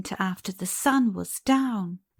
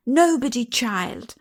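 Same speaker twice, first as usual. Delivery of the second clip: loud sharp Nobody, higher; almost angrily; 4 semitones higher, 5 dB louder than usual. Acted. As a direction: brush her off almost angrily. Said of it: "almost angrily".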